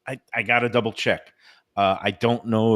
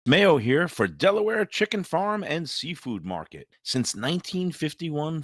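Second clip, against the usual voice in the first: polished, punchy sponsor spot; radio ad read. Acted. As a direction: sell it like a local radio commercial. Recorded sponsor spot read by host.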